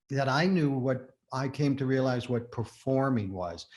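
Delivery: ordinary talk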